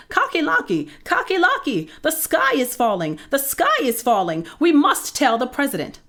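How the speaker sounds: very high, frantic bird alarm; excited yelling. A narrator's reading. Birds alerting their rooster friend, high excited yelling. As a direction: sound the alarm, pitch flying up. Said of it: "ran to their friend Cocky Locky and yelled".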